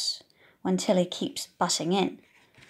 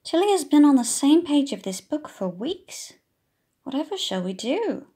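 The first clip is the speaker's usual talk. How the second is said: teacher voice; 5 semitones higher, 5 dB louder than usual. Acted. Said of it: "says the teacher".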